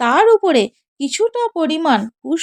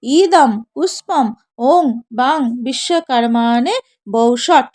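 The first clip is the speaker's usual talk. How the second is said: mantra recitation; 4 semitones lower than usual. Shown as a demonstration. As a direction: intone it like a priest at puja. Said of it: "বলবেন".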